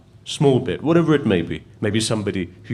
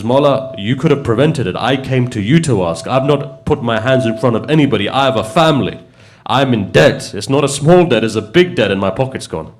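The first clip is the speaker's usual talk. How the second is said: retold indignant plea, raised pitch and voice; upset protest; 3 semitones higher, 5 dB louder than usual. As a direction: plead your case hotly, as a man wronged. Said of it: "He stormed out".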